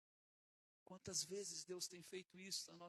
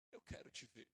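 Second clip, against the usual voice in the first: breathy whisper, pleading; hushed retold plea; 7 semitones lower, 4 dB quieter than usual. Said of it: "fiquei muito brabo e falei".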